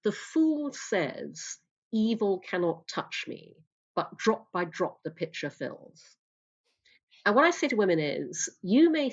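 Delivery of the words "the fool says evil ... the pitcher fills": solemn recited proverb. Retold or imitated. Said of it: "and the saying goes".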